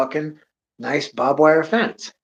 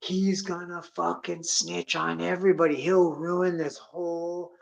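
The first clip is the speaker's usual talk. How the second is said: retold begging; 3 semitones higher than usual. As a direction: lean on a friend, drawing the words out. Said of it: "now I'm starting to beg".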